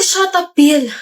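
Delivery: angry snap. Acted. Student snapping at her boyfriend to stop nagging, angry. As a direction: yell it at him, fed up. She loses her temper at Bill.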